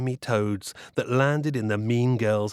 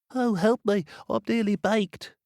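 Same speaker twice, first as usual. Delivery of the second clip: high little cry for help; a tiny bread loaf begging; pleading loaf voice; 10 semitones higher than usual. Acted. Talking loaf calls out.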